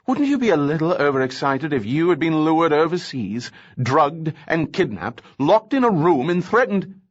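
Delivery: rising indignant outburst; overexcited outburst. Acted. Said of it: "You're getting overexcited".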